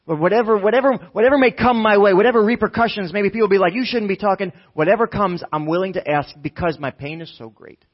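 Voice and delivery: high, loud, tumbling plea; urgent outburst that eases at the end; desperate. Acted. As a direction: pour it out, past caring who objects. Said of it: "you can hear the desperation".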